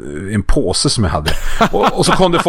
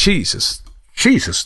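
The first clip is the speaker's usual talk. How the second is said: stunned, pitch climbing higher; shocked exclamation; 7 semitones higher, slower than usual. Retold or imitated. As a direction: voice jumping higher in alarm. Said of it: "tänkte jag".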